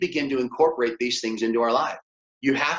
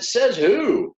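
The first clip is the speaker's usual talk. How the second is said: sharp, higher, louder comeback; challenging retort; 8 semitones higher, 5 dB louder than usual. Retold or imitated. Teacher firing back at the upset lady, challenging. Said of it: "And I said".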